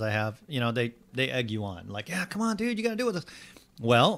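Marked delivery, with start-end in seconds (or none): 2.1-3.3 high, light mock voice of pushy friends; friends egging him on. Triathlete friends urging him into the water, mock high voice. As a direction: tease him into joining, mock-cheerful.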